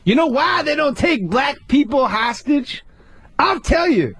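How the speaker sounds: high, slow setup dropping to drawn-out punchline; Dave Chappelle. Acted. Comic mocking a rival's act, exaggerated white voice punchline. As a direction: deliver the punchline in a mock white-guy voice. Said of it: "he does his regular punchlines in the same white voice".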